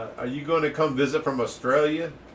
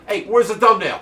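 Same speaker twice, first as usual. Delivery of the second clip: louder, higher, hurried demand; brusque demand; 5 semitones higher, 7 dB louder than usual. Acted. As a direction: skip the niceties and demand it. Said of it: "We don't have time for that".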